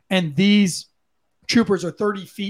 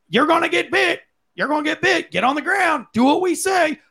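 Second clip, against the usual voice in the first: higher mock yell of officers barking orders; mock yelled commands; 9 semitones higher than usual. Mimicking officers yelling at the suspect, a higher mock yell. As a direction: ham up the cops yelling over each other. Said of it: "a whole bunch of people yell".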